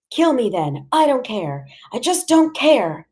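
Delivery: high, despairing mother past caring; desperate defiance. A narrator's reading. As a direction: voice climbing as you give up. Mother gives up defiantly in quarrel.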